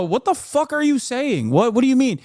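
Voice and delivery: high, baffled what the fuck; confused bystander. Retold or imitated. Normal people reacting, high and baffled. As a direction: play the confused normal person. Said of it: "and go".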